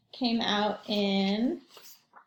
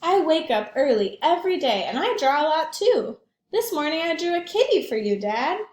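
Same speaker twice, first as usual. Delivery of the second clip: put-on little girl voice; 6 semitones higher, 6 dB louder than usual. Child Alma speaks to father.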